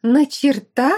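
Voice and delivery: loud high demand; hysterical question. Acted. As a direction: stress on на, rising. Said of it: "истерила Аделла".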